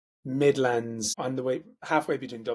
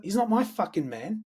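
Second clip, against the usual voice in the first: offended Aussie; 6 semitones higher than usual. Retold or imitated. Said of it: "he's like".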